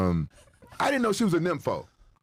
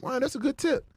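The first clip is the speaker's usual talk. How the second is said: impressed wow; 9 semitones higher than usual. Retold or imitated. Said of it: "I'm like".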